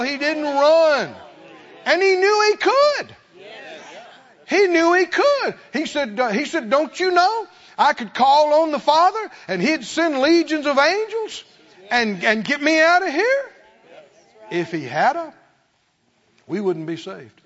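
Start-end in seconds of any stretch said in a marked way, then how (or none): 0.0-1.1 rising, louder preacher's cry; full-force Pentecostal sermon; fiery preaching. Acted. 1.9-5.5 much higher, louder climax; soaring sermon peak; preacher's cry. Acted. Preacher peaking in emphasis. 5.7-13.5 rising, louder preacher's cry; full-force Pentecostal sermon; fiery preaching. Acted.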